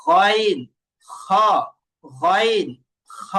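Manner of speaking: "গইন" and "খ" singly, from back of throat; throat-letter drill. Shown as a demonstration. Teacher likens it to gargling, isolated letters demonstrated. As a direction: separate "গইন", "খ" with pauses, gargle-like. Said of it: "এই যে এইভাবে".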